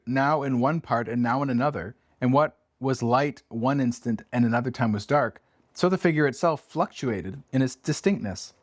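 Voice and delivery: measured, slowed storybook narration; story reading. Acted. Host reads the ghost passage to Abby, hushed storytelling. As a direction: read the passage with gentle suspense.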